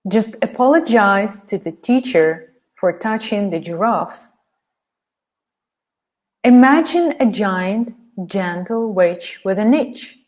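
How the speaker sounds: careful modelled reading for learners. Shown as a demonstration. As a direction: read clearly for repetition. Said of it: "say the sentences out loud".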